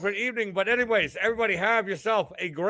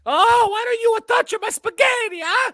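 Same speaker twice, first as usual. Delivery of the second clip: stupid Mario voice; 14 semitones higher than usual. Retold or imitated. Host answers chat's spaghetti request in a stupid Mario voice. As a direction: belt it out like a goofy Mario. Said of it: "I'll say it in a stupid Mario voice".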